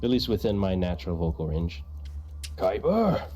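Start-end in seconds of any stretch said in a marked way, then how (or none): 2.6-3.3 low heroic duelist voice; lower, resolute challenge; Pharaoh Yugi. Pretend. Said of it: "more mature Yugi, the Pharaoh".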